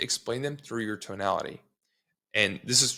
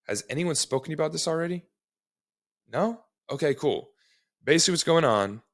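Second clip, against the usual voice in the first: demo cold-call intro. Shown as a demonstration. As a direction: sell it like a live call to a homeowner. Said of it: "a good intro would be".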